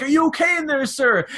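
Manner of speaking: high, loud concerned call through a door. Retold or imitated. Staff calling through the door to a stuck man, loud and concerned. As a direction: shout it through the locked door.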